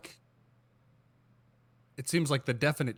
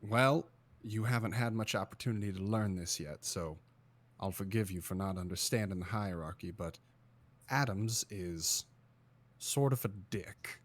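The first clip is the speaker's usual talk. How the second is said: low, soft aside from an agent; confiding agent; 6 semitones lower, 8 dB quieter than usual. Acted. Agent hangs back to warn the newcomer about Adams, confiding. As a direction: confide it quietly, with careful pauses. Player in character confides quietly.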